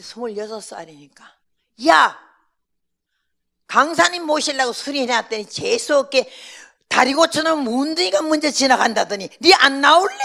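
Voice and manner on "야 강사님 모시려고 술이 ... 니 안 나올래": loud, higher rant; angry scolding. Retold or imitated. Old mother scolding the unwanted young mother, loud and high. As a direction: scold her out of the room.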